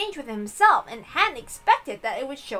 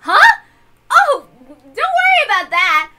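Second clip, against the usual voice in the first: put-on higher, louder girl, slowing on the reassurance; eager girl; 7 semitones higher, 8 dB louder than usual. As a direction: reassure him warmly in a girl's voice. Jessica's voice.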